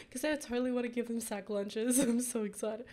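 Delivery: eager, giggly gush; dweeby excitement. Real, not acted. Gamer thrilled about giving kids sack lunches, dweeby excitement. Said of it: "I sound like an actual dweeb".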